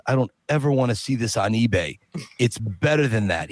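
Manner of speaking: lightly imitated star, pitched low; a low-voiced, sincere request from the actor; Sly Stallone. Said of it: "When Sly saw it".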